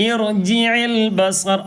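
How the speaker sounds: drawn-out slow recitation of ഇർജിഇൽ ബസർ; Quran recitation demo. Shown as a demonstration. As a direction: chant ഇർജിഇൽ ബസർ slowly with long vowels. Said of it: "അവിടുന്നാണ് ഓതുന്നതെങ്കിൽ".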